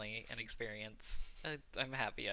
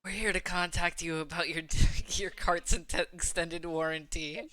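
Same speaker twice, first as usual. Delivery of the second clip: slow, higher scam-call read; telemarketer voice; 6 semitones higher, 8 dB louder than usual. Pretend. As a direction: drone it like a robocall. Mock robocall voice.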